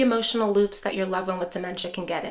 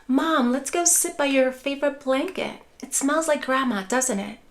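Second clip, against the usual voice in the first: gentle redirect; 2 semitones higher than usual. Shown as a demonstration. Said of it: "you can say something like".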